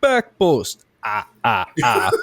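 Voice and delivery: Count von Count voice. Retold or imitated. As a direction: call plays like a counting Transylvanian vampire. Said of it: "so he'd be like".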